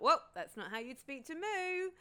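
high-pitched mock reprimand; light, sing-out telling-off; playful self-scolding. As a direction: catch yourself with an exaggerated, high "whoa". Catching herself, playful self-scolding.

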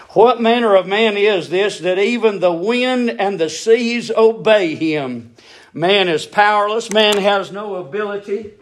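ringing scripture proclamation; full-force preaching. Real, not acted. Preacher marvelling that wind and seas obey, ringing proclamation.

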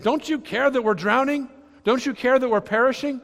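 high-pitched, mildly panicked plea; panicked disciples. Retold or imitated. Disciples waking Jesus in the storm, acted-out panic. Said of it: "they're all panicking".

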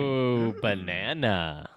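low, slow ape grunt; Donkey Kong voice. Retold or imitated. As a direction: drawl it like a big dumb gorilla. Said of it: "That's my impression of Donkey Kong".

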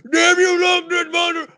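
high, fast exasperated holler; Chef's dad cursing. Retold or imitated. The father curses the monster in high exasperation. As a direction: curse the monster with a shake of the fist. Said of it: "telling his story".

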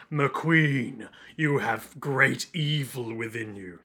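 solemn mock-villain pronouncement; Whitesnake monologue. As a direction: intone a grave judgement. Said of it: "Whitesnake in the toilet, being like".

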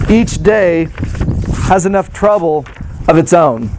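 measured, solemn Bible reading; scripture reading. Acted. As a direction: read the passage with weight. Scripture reading within sermon.

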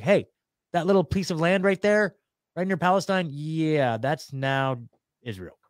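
mock-casual imitation of an official; breezy mock announcement. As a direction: toss it out like a cheeky land grab. Acting out Balfour claiming land.

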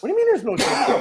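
high-pitched baffled question; incredulous. Retold or imitated. Pranked husband questioning his wife, incredulous. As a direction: demand it in rising disbelief. Retold confusion at wife's reveal.

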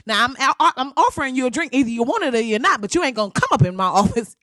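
hammed-up sassy auntie tirade; mock Maxine scolding. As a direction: tell them off for turning down a drink.

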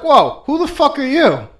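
high, loud, slow startled cry. Retold or imitated. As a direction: jump out of your skin. Startled girl in dark shed.

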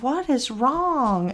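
put-on grandma gently asks the crying child what is wrong, kind voice; kind sweet voice. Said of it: "the kindest, sweetest voice".

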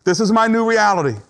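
high, firm declarations with pauses between; acceptance. Acted. Preacher voicing the last stage of grief, in resolute acceptance. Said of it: "acceptance says".

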